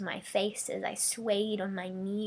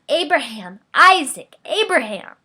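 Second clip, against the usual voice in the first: loud desperate calls, higher pitch; hollering; 5 semitones higher, 13 dB louder than usual. Acted. Mother running and hollering for her husband and son. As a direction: shout the names into the desert. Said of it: "I hollered as I ran".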